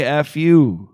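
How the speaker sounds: punchy demo of the catchphrase; showing the line. Shown as a demonstration. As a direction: give it the way it should go. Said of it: "You're supposed to say".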